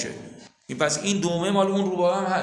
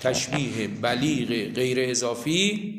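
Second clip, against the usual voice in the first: slow dictation with long pauses; 3 semitones lower, much slower than usual. Real, not acted. Teacher telling students what to write under the line, slow dictation. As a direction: dictate word by word, drawing each one out. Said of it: "بنویسید".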